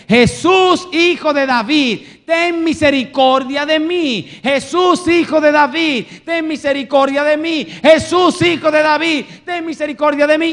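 loud, high, insistent shouting; crying out. Acted. Blind Bartimeo clamoring for Jesus' mercy, crying out. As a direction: keep hollering the plea, never letting up. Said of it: "comenzó a dar voces y a decir".

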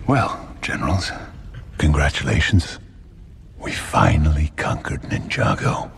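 low, slow mock congratulations; sarcastic. Warlord congratulates his failed generals, sarcastic. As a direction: deliver praise with heavy, measured sarcasm. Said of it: "I was being sarcastic!".

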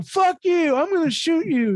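over-the-top mock tantrum at the counter; mock furious customer. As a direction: shriek it like an unhinged customer. Voicing raging customer.

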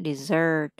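"Dessert" with a buzzing z and curled r; model pronunciation. Shown as a demonstration. Teacher correcting the student's "dessert". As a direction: say "Dessert" with a voiced z. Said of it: "Em còn thiếu cái chỗ rung".

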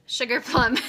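self-correcting Sugar Plum; corrected name. Shown as a demonstration. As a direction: fix the slip: Sugar Plum, crisp. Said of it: "I said Sugar Plump".

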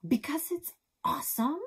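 lightly voiced Alex, pleased; boy's voice. A narrator's reading. Alex voiced higher in story.

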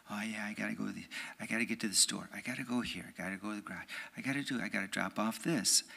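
a hint of a distracted errand-runner; your own busy voice. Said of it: "there's your voice".

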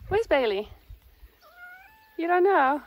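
high, loud mock-surprised question; pet talk. Real, not acted. Owner asking her cat where Bailey is, high pet talk. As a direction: ask the cat in a high coo.

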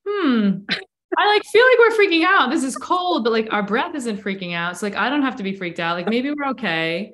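high, wary inner voice, then settling; worried, then realizing it's fine; voicing the nervous system. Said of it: "your nervous system is like".

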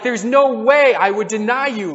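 emphatic mock vow of loyalty; adamant denial. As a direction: insist it could never happen. Peter denies Jesus' prediction.

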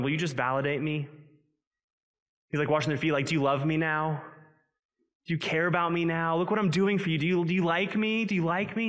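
hammed-up needy plea for approval; needy Jesus. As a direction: pastor mocking an approval-hungry Jesus. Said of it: "if Jesus is walking around going".

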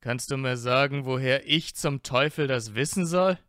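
lauter, gereizter Ausruf; genervt. Acted. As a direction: mach es laut und entnervt. Draco genervt über Harrys Frage. (Draco fährt Harry genervt und laut an)

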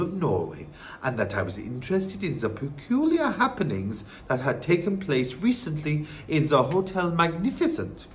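put-on soft old-woman voice; composed grandmother recounting events; wise Norwegian grandmother. Grandmother tells her news.

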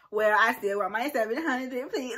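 mock her younger self's demand; bratty ungrateful voice. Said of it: "I sound ungrateful because I'm talking about some".

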